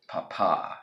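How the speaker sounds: "papa" stressed on the last syllable, slowly; careful Spanish "papa"; correct Spanish stress. Shown as a demonstration. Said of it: "as I should say".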